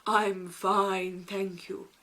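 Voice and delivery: loud, odd horse voice that settles down; a lightly voiced talking horse. The horse answers Snow White politely, in a put-on horse voice. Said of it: "the horse turns to her and says".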